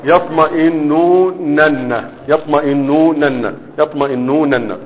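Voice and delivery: stretched slowly syllable by syllable; slow step by step. Shown as a demonstration. Teacher sounding out يطمئنونن slowly for students. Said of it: "واحدة واحدة هنشوف".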